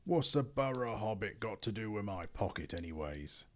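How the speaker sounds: lightly voiced suspicious troll; troll William. William grumbles at the hobbit, lightly voiced troll. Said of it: "said William".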